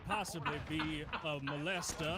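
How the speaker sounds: slow Southern rooster drawl, lightly done; mock cartoon rooster drawl; hint of a Foghorn Leghorn voice. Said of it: "why do you sound like Foghorn Leghorn now".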